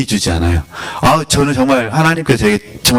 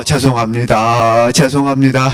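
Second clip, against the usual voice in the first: mock weeping apology. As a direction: act out a tearful penitent, stretching the words. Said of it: "또 울어". (우는 척 길게 늘여 사과하는 말투)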